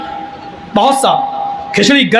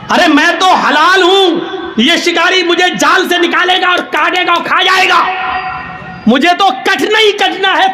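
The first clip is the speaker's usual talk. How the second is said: furious shout; 8 semitones higher than usual. Acted. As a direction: shout him down in outrage. Pigeon yells back at crow.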